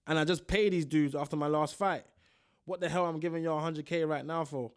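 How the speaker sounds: put-on a light American accent, quoting the fighter's post. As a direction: read his words in a mild American accent. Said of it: "I'm doing that accent still".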